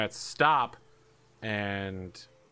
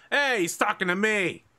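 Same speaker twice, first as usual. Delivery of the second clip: high, loud rat voice; excited rat calling out; 9 semitones higher, 5 dB louder than usual. Acted. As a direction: crow it to the whole pack. Ratso calls out to the pack.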